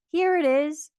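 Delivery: excited cry. A narrator's reading. Boy finding the present, high excited cry. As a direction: burst out excitedly. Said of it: "cried Christopher Robin excitedly".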